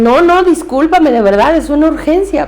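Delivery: más agudo y algo más fuerte, disculpa insistente; dentista apurado disculpándose. Retold or imitated. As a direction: imitando al dentista que se excusa. Dentista se disculpa por teléfono. (el dentista le ruega perdón a Rebeca, voz alta y apurada)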